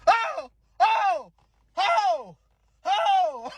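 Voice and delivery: repeated high, loud comic wails; mock pre-screaming. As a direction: re-enact screaming before any pain hits. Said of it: "so I started pre-screaming".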